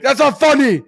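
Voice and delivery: high-pitched mock yell; imitated scream. Ned to kids teasing him, imitated scream. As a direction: cry it out in protest. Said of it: "scream at us and be like".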